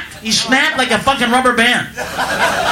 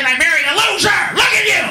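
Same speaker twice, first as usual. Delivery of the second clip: nagging wife. Retold or imitated. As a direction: berate him like a fed-up wife. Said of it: "His wife probably gave him shit".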